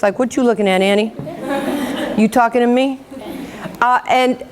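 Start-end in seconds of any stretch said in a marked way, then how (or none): 0.2-3.0 lightly put-on old New York accent; a touch of tough New York talk. Shown as a demonstration. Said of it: "I used to talk like this".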